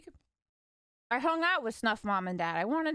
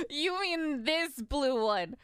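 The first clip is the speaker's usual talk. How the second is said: laughing disbelief; 3 semitones higher, much slower than usual. Retold or imitated.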